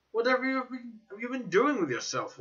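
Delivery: wondering. A narrator's reading. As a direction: ask it in open amazement. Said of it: "he asked in undisguised wonder".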